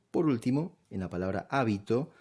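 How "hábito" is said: "hábito" stressed on the opening á; stress on first syllable. Shown as a demonstration. Teacher giving the last case, "hábito" stressed on há. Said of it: "la sílaba acentuada es a".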